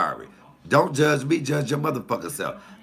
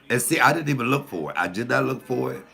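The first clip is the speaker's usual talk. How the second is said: ordinary talk, nothing marked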